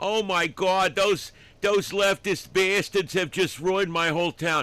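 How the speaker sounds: put-on complaining New York accent. Retelling a call to the show, the speaker imitates a caller with a New York accent impression. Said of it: "He's got this New York accent. He goes".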